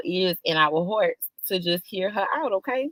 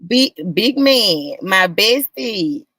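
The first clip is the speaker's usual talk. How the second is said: loud hype shout-out; 6 dB louder, much slower than usual. Real, not acted. Hyping up her best friend.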